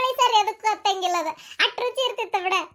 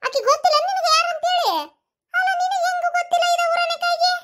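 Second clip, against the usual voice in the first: laughing; 10 semitones higher than usual. Real, not acted. Teasing friend who doesn't know.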